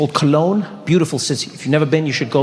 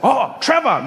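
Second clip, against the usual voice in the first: imagined delighted surprise, pitched higher; mild mock surprise; 7 semitones higher, slower than usual. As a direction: imitate a father pleasantly caught off guard. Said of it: "be surprised, like".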